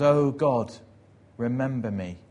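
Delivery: plea opening loud, then settling; praying. Retold or imitated. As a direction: call on God, then ease into the request. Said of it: "begins to pray".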